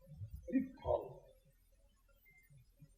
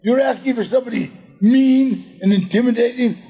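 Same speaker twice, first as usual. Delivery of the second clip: high, half-shouted protest to the director; mock indignant disbelief; 5 semitones higher than usual. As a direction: play up the disbelief, pointing at yourself. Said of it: "And I said".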